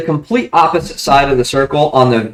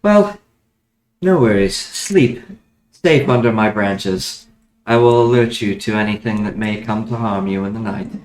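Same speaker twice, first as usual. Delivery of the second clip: talking tree. Acted.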